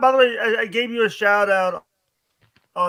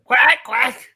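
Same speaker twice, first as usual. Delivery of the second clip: put-on reading to a toddler; 5 semitones higher, 9 dB louder than usual. Pointing out a duck, toddler-style.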